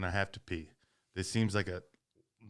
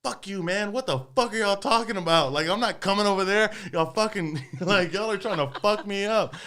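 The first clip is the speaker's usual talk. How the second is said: loud, higher shouted retort; yelling back; 11 semitones higher, 8 dB louder than usual. Retold or imitated. To the group chasing him at the border, a loud high shout. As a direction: shout it back at them, fired up.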